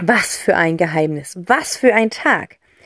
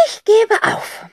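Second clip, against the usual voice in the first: moved; 14 semitones higher, slower than usual. Acted. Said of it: "sagt Tante Rotz ergriffen".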